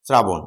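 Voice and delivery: শ্রাবণ said slowly as srabon, with a dental s; demo pronunciation. Shown as a demonstration. Teacher sounding out শ্রাবণ for the student, with a dental s. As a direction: sound out শ্রাবণ with a clear s, not sh. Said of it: "আমি যদি বলি".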